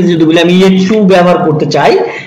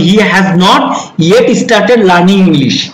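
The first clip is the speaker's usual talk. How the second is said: slow model sentence; much slower than usual. Shown as a demonstration. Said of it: "has not এর পরে বসাতে পারেন".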